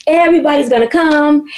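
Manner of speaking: mildly excited, eager planning voice; retold hopeful enthusiasm. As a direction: quote someone looking forward to a big turnout with some excitement. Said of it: "you was all excited".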